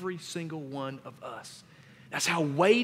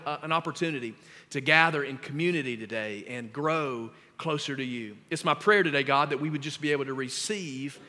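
prayer; 2 semitones lower than usual. Acted. Pastor praying for the church before preaching. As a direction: pray over the congregation.

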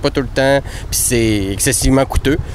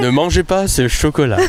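flat recorded metro announcer; Montreal subway announcement. Pretend. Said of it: "avec une voix de métro de Montréal".

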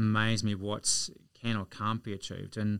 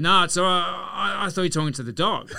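higher and louder, laughing through the punchline; laughing retelling; 9 semitones higher, 8 dB louder than usual. Retold or imitated. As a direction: crack up while quoting the stranger. Retelling the stranger's funny reply.

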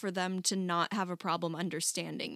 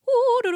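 loud, high sing-song nonsense syllables; sing-songy mock accent; 12 dB louder than usual. English people describing a Welsh accent, mock sing-song. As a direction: imitate an accent as pure bouncing melody. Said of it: "It's sing-songy".

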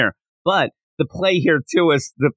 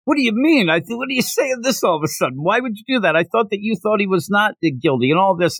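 retold freak-out; 4 semitones higher than usual. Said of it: "he freaks out".

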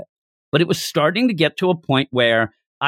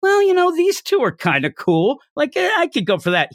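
mock casual Tanjiro; 12 semitones higher than usual. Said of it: "he could say right here".

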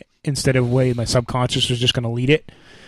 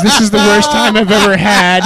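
imitating crying girl; 6 semitones higher, 4 dB louder than usual. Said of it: "then she says".

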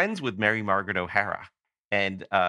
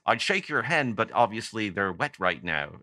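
bad singer impression. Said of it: "I do a bad Andy Partridge impression".

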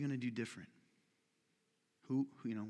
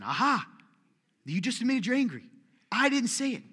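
higher, louder triumphant tease; playful gotcha; 7 semitones higher, 5 dB louder than usual. Acted. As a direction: catch them out, grinning.

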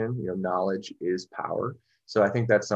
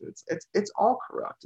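incredulous echo; 12 semitones higher than usual. Retold or imitated. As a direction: pitch jumps higher, ending on a rise. Echoing the quote incredulously.

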